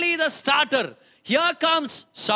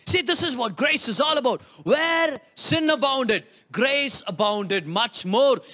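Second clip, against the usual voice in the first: preaching shout. Real, not acted. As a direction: drive each phrase home to the congregation. Preacher proclaiming grace.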